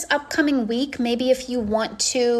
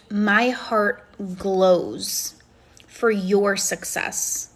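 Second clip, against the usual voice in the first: sincere; much slower than usual. Real, not acted. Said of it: "I say this so sincerely".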